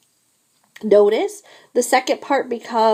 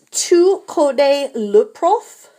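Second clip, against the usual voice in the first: Tu connais le prof? drawn out slowly, rising at the end; slow model question; 5 semitones higher, 4 dB louder, slower than usual. Shown as a demonstration. Teacher models the answer for exercise one slowly. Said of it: "So it becomes".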